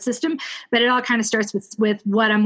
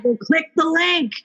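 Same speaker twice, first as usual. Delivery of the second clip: mock dismissive author; 7 semitones higher, slower than usual. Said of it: "You were saying".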